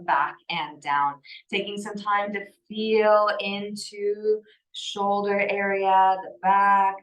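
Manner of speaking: calm, measured yoga-teacher cueing; guided yoga. Acted. Yoga teacher settling a class into breath and movement, calm guidance.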